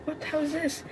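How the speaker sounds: breathy stunned whisper, barely any voice; shocked whisper. Retold or imitated. Caught on camera by laughing students, a stunned whisper. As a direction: whisper it like you can't believe your eyes. We were taken aback.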